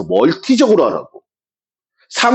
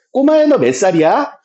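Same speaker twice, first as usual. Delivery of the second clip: put-on talking to a kid; 6 semitones higher than usual. Teacher asking a child their age, kindly higher voice. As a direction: friendly question to a small child, pitched higher. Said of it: "꼬마한테 물어봐".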